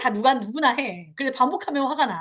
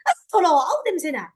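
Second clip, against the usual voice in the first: disgusted; 4 semitones higher than usual. Retold or imitated. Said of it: "이렇게 하진 않았는지".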